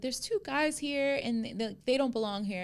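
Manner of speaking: trying to be nice. Retold or imitated. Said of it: "he's trying to be nice about it".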